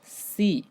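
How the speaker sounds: सी said "see", with a long ee; सी with one long ee vowel. Shown as a demonstration. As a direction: model सी as s plus ee. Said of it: "तो वो ई की मात्रा बन जाएगा".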